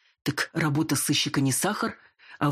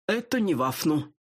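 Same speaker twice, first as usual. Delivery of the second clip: lisping man, lightly voiced; slushy lisp; 2 semitones higher than usual. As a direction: lisp every s into f. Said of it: "шепелявый". (шепелявый голос)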